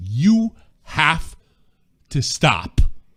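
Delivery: very slow, very drawn-out put-on Scottish accent. Retelling how someone cut a man off during a debate, Scottish accent. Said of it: "In a Scottish accent".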